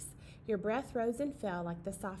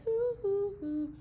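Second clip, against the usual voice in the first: high hoots then a slow "who are you"; hoot, then stretch the question out; owl hoots; 5 semitones higher, much slower than usual. Pretend. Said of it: "The owl in the tree says".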